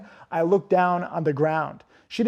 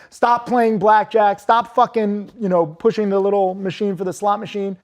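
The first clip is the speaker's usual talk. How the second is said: mock scolding; 3 semitones higher, 4 dB louder than usual. Imagining himself at the casino telling gamblers to stop, mock scolding. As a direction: scold gamblers like a coach yelling at them. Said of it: "me going to the fucking casino and being like".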